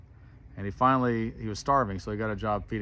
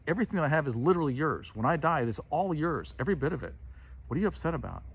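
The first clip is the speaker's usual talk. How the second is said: earnest reassurance; 5 semitones higher, faster than usual. Retold or imitated. Father answers the angry older son.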